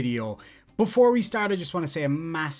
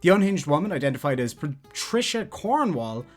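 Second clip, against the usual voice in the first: news read; 3 semitones higher than usual. Acted. Reads a news article aloud.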